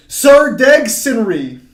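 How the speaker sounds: slow, loud attempt at "Sir Deg Sinri"; laboured pronunciation. Shown as a demonstration. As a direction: stretch "Sir Deg Sinri" as an unfamiliar phrase. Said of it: "trouble pronouncing this one".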